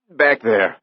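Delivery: put-on young repairman, shaken, pointing back; shaky. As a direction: blurt it out scared. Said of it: "Andy said shakily".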